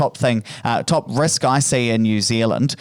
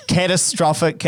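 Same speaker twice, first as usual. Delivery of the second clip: laughing; 3 semitones higher than usual. Real, not acted. Laughing at own word choice.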